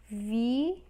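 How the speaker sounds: "Virus" split into VI, pause, RUS; syllable by syllable. Shown as a demonstration. Teacher showing how to separate, syllable by syllable. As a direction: hold VI, pause, then say RUS. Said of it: "É assim que a gente separa".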